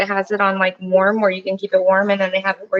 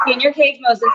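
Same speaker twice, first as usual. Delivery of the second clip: raised, commanding call; firm call to the pet; 5 semitones higher, 3 dB louder than usual. Real, not acted. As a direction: order the bird into its cage. Ordering the bird into cage.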